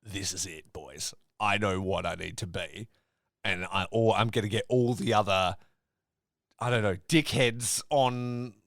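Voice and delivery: a hint of a smug Yo, muttered and low; mocking Yo. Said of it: "or he's like".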